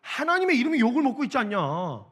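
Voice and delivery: put-on young David can't hide his agitation; worked-up protest. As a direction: argue with disbelieving passion. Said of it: "흥분을 감추질 못하고".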